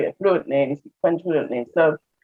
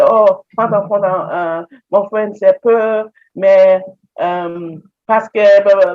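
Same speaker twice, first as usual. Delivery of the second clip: halting French; 2 semitones higher, 3 dB louder, slower than usual. Retold or imitated. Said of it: "I say".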